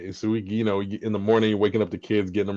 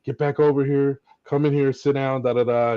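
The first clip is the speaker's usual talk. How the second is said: wife calling son back; 5 semitones higher than usual. Retold or imitated. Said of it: "my wife called him back".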